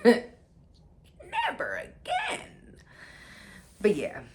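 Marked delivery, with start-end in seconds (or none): 0.0-2.4 high drawn-out laughing yell; laughing shout. Real, not acted. Swearing off fake friends, slow high laughing shout. Vow, loud repeat.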